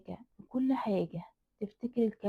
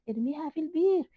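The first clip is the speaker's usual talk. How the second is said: insistent order; 7 semitones higher, 5 dB louder than usual. A narrator's reading. Repeated command, second higher.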